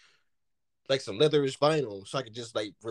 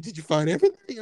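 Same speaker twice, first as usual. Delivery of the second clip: louder mock cashier's question, rising at the end; imitated "she" cashier; 3 semitones higher, 6 dB louder than usual. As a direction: imitate the cashier asking, lifting the last word. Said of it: "She said".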